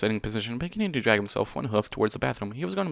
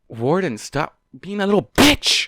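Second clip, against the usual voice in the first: higher, louder, slow outburst; exasperated yell; 6 semitones higher, 5 dB louder, slower than usual. Real, not acted. Reader yelling at a weak hero, exasperated. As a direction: shout at the character in frustration. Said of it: "reader yells at character".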